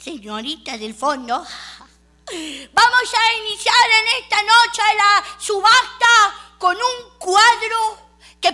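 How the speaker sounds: high, slow, loud showman's opening; auctioneer voice. Retold or imitated. Auctioneer introduces the painting, slow and grand. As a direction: announce the first lot grandly. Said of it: "El hombre con el martillito dijo".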